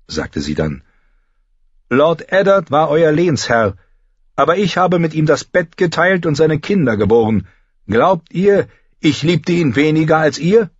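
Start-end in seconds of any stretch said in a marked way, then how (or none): 1.9-10.7 higher-pitched, impassioned widow's plea; grieving, near breaking. A narrator's reading. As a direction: challenge the lords with understated grief. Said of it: "Fast brach ihre Stimme vor Trauer".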